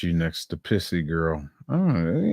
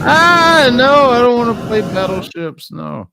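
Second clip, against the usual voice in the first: high whiny mock refusal; mock whine; 10 dB louder than usual. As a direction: squeal it like a spoiled kid.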